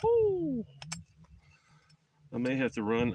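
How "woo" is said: sharp high woo after a strong drink; high whoop. Real, not acted. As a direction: let out a bright whoop. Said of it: "after tasting whiskey".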